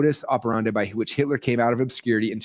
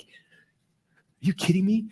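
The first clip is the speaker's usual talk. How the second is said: drawn-out disbelief; 8 semitones higher, much slower than usual. Retold or imitated. Asked to publish the book.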